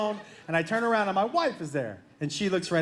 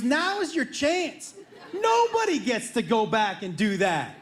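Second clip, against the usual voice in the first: brother's excited urging; slower than usual. Retold or imitated. Brother on the phone urging revenge, slow excited shout. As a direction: egg him on like a big brother who's waited years.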